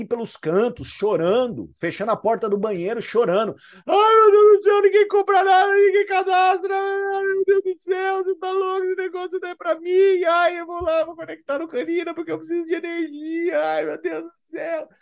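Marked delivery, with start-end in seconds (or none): 3.9-14.9 high, hammed-up whining; mock a self-pitying crybaby; whiny mock lament. Mocking a whiny distributor crying. (imitando alguém choramingando, voz bem aguda e exagerada)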